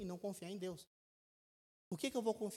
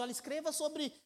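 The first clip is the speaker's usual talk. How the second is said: lightly raised voice of the Spirit giving a gentle order; a hint of a higher divine voice; Holy Spirit speaking; 5 semitones higher than usual. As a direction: voice the Spirit telling the writer what to write. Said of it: "Imagine o Espírito Santo falando assim".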